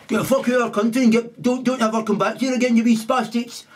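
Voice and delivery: high, hurried, indignant rant; mock angry expulsion. Yet another country banning their return, mock fury. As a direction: rattle off the order in mock fury.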